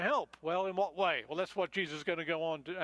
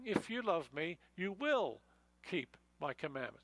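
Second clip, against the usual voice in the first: read as a promise. Shown as a demonstration. Preacher giving the right reading, calm and reassuring promise. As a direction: let the line fall gently like an assurance. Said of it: "It's saying".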